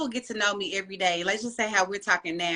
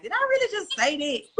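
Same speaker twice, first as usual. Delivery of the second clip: higher startled self-question; shocked at herself; 9 semitones higher than usual. Retold or imitated. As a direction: catch yourself mid-sentence. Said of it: "I be like".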